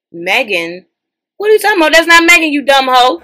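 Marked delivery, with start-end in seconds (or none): 1.4-3.2 much higher, louder outrage; incredulous scolding. Real, not acted. To a wrong commenter, high outraged scolding. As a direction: call the commenter out, shocked.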